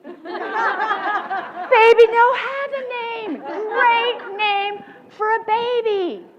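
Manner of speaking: amused slow repeat of the name; laughing. Real, not acted. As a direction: draw it out through laughter. Savoring the funny name.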